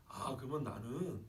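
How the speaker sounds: softly acted, humbled realization; dawning realization. Preacher voicing a grafted-in believer, dawning realization. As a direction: let it sink in gently, phrase by phrase. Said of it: "뭔가 깨달음 같이 들리세요".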